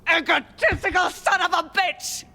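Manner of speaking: high, strained cry of contempt; furious insult. Acted. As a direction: spit it out in a rising rage. Furious outburst at partner.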